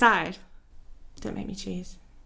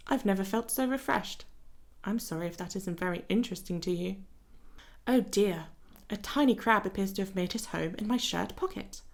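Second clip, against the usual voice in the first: lightly voiced vain gentleman reading his lines; a hint of a fussy dandy, unhurried; Elliot voice. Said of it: "That's my Elliot voice".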